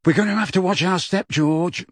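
high, mock-fearful voice; pretended trembling. A narrator's reading. Brother mocking the new prefects, pretending fear. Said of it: "pretending to tremble".

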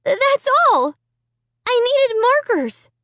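high, shaky and pleading; trembling voice. A narrator's reading. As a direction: keep the voice trembling. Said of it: "in a trembling voice".

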